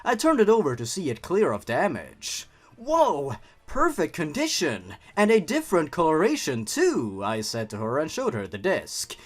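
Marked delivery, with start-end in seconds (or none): 2.8-7.2 excited. Acted. Excited quote of found disc.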